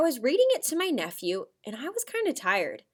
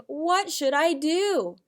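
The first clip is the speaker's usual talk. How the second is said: questioning; 5 semitones higher, much slower than usual. Shown as a demonstration. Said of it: "your character is asking".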